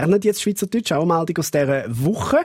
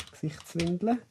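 typing into device; 11 dB quieter than usual. Shown as a demonstration. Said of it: "ich geb's mal ein da".

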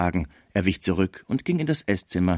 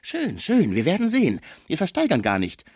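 much higher-pitched menacing voice; threatening Frisier; 8 semitones higher than usual. A narrator's reading. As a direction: threaten in a high, thin register. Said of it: "Man trennte sich unter Drohungen". (drohend, mit hoher Stimme)

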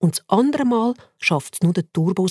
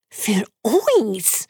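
guinea pigs; much slower than usual. Acted.

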